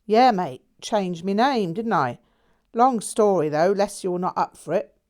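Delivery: a breezy lad spinning his tale; lightly voiced cheeky Londoner. A narrator's reading. Jack teasing his old friend, in a cheery Londoner voice. Jack's voice in the story.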